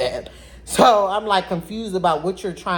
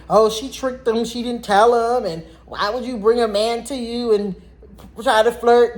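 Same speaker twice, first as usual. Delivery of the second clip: a lightly voiced judgmental onlooker, higher; mock gossip voice; 6 semitones higher, 4 dB louder than usual. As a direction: toss off the blame like a nosy commenter. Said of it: "people will flip and say".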